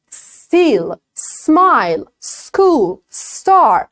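"Still" and "smile" begun straight on S; no added E. Shown as a demonstration. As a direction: clean S clusters, no vowel before. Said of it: "در صورتی که اشتباهه". (اس بدون صدای اِ)

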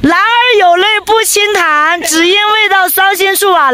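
high, drawn-out recitation; declaimed saying. Pretend. Traveller recites a saying over a crying friend, high declaiming. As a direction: declaim the proverb high, stretching the end.

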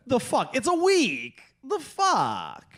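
high-pitched incredulous outrage; exasperated rant. Real, not acted. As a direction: spit it out in baffled frustration. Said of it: "nicotine-deprived hate fest".

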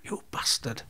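whispered, seething aside; muttered curse. Retold or imitated. Boxer's silent thought at the referee, muttered bitterly. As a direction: curse him under your breath.

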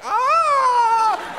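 very high, loud shriek; falling scream. Retold or imitated. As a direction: scream like she's dropping off a bridge.

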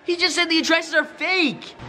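a high, outraged what; disbelief. Real, not acted. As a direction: react in shock. Learns the addresses are fake.

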